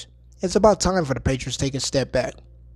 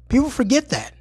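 breathy repeated whisper; 10 semitones higher than usual. Shown as a demonstration. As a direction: whisper it like a secret.

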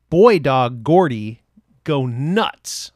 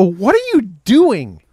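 loud, slow, drawn-out mock question; retold incredulous holler; wife's baffled demand; 5 semitones higher, 8 dB louder, slower than usual. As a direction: imitate a wife walking in, stretching each word loudly. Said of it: "she'd go".

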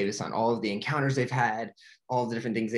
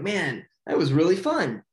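bright mock cheer, higher and louder; excited and happy; 6 semitones higher, 5 dB louder than usual. Marlin thrilled after riding the current, excited. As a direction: Marlin whooping after a fun ride. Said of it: "like, excited and happy".

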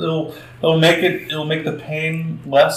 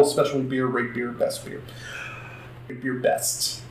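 auctioneer voice. Pretend. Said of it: "I'm trying to do my best, uh, auctioneer voice".

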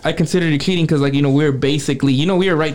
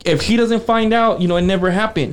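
outraged; 7 semitones higher than usual. Retold or imitated. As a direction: let the outrage spill over. Furious at the betrayal.

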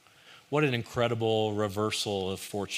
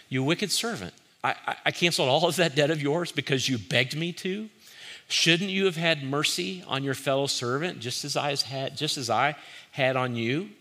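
raised, reproachful scolding; stern rebuke; 4 semitones higher than usual. Retold or imitated. The master rebuking the wicked servant, sternly and reproachfully. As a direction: call him out as wicked.

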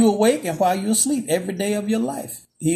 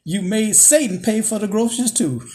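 mock shout; 3 dB louder than usual. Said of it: "She shouts".

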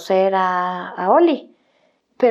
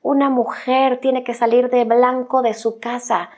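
parents scolding; 3 semitones higher than usual. Retold or imitated. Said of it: "mis papás me atacaban".

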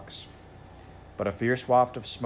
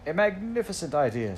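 complacent; 7 semitones higher than usual. A narrator's reading. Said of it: "said the phoenix complacently".

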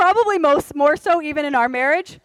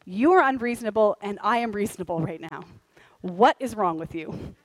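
inner voice, smug; 5 semitones lower, 5 dB quieter than usual. Retold or imitated.

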